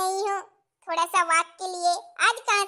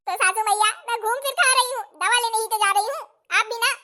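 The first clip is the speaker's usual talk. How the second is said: put-on higher, louder fretting young bride; 5 semitones higher, 6 dB louder, faster than usual. New bride alone in kitchen, fretting in high voice. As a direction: fret like a clumsy new bride.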